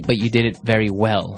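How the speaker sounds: ordinary talk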